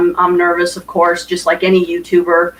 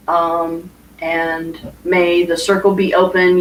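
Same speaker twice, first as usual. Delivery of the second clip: ritual recitation. Acted. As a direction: recite it like a circle blessing. Recites closing circle ritual.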